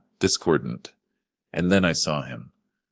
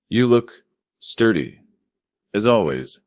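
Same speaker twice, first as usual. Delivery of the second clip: mocking; 6 semitones higher, 6 dB louder than usual. Jessica's mocking compliment.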